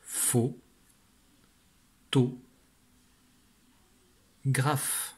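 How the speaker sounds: dictation with long pauses between syllables. Shown as a demonstration. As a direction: give one syllable, then wait for writing. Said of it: "Donc on écrit". (dictée syllabe par syllabe, longues pauses)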